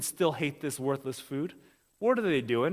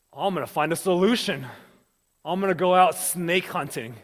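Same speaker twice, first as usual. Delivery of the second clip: gung-ho type A; 2 semitones higher, 6 dB louder than usual. Acted. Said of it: "type A folks out there".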